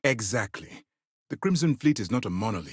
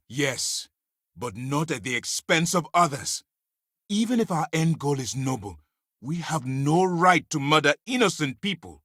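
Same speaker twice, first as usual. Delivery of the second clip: impassioned objection; 5 semitones higher than usual. Acted. Arguing against killing innocents.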